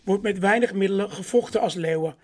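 measured rhyming Sinterklaas verse; poem reading. Acted. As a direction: read the rhymes out to the room, line by line. Reads a Sinterklaas poem aloud.

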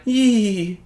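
high, drawn-out eerie "ee"; imitated witchy squeal. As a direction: mimic a creepy high-pitched noise. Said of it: "like a fucking witch or something".

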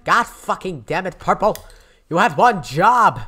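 high, angry yell at a teammate; frustrated outburst. Real, not acted. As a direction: blow up at Purple for failing. Teammate Purple messed up.

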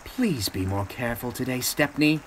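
anxious. Acted. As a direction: urge a friend to take care. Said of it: "Edward watched anxiously".

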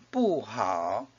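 "不" falls, then "好" dips low; fourth-tone bu before third tone. Shown as a demonstration. Teacher showing bu followed by a third tone, "不" falling. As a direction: drop on "不", dip low on "好". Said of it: "is pronounced as a fourth tone".

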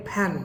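"ফ্যান" with aspirated p for f; Bangladeshi mispronunciation. Retold or imitated. Teacher imitating local speakers, fan mispronounced. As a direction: say "ফ্যান" as p-han. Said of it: "বাংলাদেশিরা এখানে উচ্চারণ করে".

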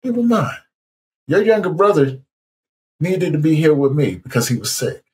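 high, lifted divine voice; voice of God. Retold or imitated. God explaining why the brother was taken, high and solemn. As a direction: explain it from above, calm and sure. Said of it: "And the voice said".

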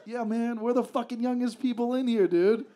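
mock panicked young guy. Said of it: "We gotta get the fuck out of here".

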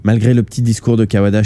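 ordinary delivery

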